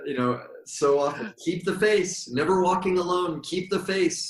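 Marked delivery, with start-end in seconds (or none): 1.4-4.2 doorman's catchphrase. Retold or imitated. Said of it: "he would say that".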